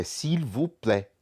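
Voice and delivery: s'il vous plaît slowly, silent s and t; French pronunciation. Shown as a demonstration. Teacher modelling the phrase for students, careful French pronunciation. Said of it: "O S no final a gente não fala".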